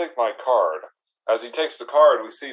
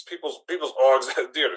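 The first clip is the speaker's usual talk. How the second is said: breaking into laughter. Real, not acted. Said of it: "Sorry, my voice changed".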